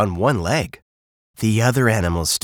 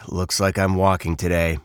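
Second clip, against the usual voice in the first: lightly voiced grumpy bird, low-key; a touch of grumbling resignation; sighing, mildly grumpy bird; 3 semitones lower than usual.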